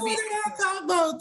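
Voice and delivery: high-pitched mock Australian; playful, exaggerated Australian accent; Aussie accent. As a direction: put on a squeaky Aussie accent. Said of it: "do an Aussie".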